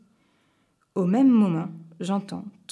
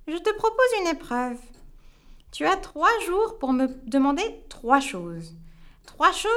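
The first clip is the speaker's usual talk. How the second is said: much higher witch voice, mocking and imperious; 8 semitones higher than usual. The witch setting him three impossible tasks, smug. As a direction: lay down the challenge like a smug witch.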